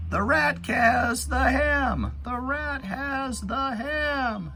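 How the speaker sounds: very high, loud, slow mock shout; hammed-up storybook shout for kids. Shown as a demonstration. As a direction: shout it out like the rat grabbed it. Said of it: "kinda like it's shouting".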